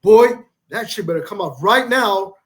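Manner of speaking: mock-stern parental telling-off; dad scolding son. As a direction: lay down the law to your boy. Dad threatening son over screen.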